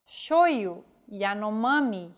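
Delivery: Y read as the vowel I; Portuguese reading of Y; Portuguese pronunciation. Shown as a demonstration. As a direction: say shoyu, Yanomami with an I sound for Y. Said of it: "The letter Y is read like the vowel I".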